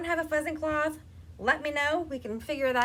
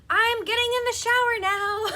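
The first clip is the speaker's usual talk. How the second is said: higher, louder, laughing as she calls it; 9 semitones higher, 7 dB louder than usual. Retold or imitated. Announcing her shower to the house, laughing loudly. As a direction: sing it out through laughter. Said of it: "I let it be known, like".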